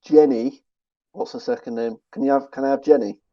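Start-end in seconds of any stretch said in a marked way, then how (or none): 0.0-0.6 loud, higher attempt at a Southern drawl; Forrest Gump's accent. Contestant tries the character's accent to jog memory, Southern drawl. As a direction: put on a Southern film accent. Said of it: "If you try do it in his accent".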